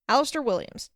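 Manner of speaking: proudly declared name, pitched a little up; proud announcement. Acted. Alistair introducing himself to Jazz, proudly. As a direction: announce yourself with pride. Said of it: "he announced proudly".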